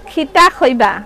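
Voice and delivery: short Sylheti question; Sylheti dialect. Shown as a demonstration. Seller attempting Sylheti for viewers with helper, in Sylheti dialect. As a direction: try out a Sylheti phrase. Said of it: "সিলোটি".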